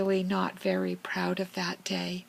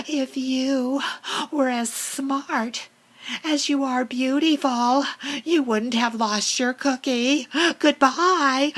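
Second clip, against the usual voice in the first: taunting; 4 semitones higher, 4 dB louder than usual. Acted. Taunting the crow after winning.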